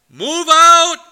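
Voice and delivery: loud, high shouted command; shouted order. Retold or imitated. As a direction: bark it like a colonel ordering troops out. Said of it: "and he says".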